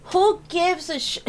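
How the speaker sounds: high, loud cry cut short; outraged shout. Real, not acted. Correcting herself mid-rant, a loud outraged cry. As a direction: yell it and bite the swear off. Ranting again, self-censoring.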